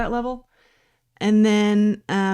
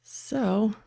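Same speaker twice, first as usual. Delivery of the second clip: wheezing asthma breath; wheezy voice; 3 dB quieter than usual. Real, not acted. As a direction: wheeze through the word. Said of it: "can y'all hear that when I'm wheezing?".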